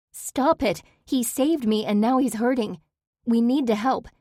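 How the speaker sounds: desperate shouting. A narrator's reading. Protesting, pleading for injured wolf.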